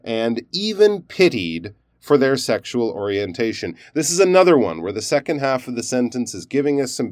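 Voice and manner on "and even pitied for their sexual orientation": even pitied stressed, then a pause; stressed aside with pause. Shown as a demonstration. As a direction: set even pitied apart before finishing the phrase. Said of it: "stress the word pity and maybe even have a pause".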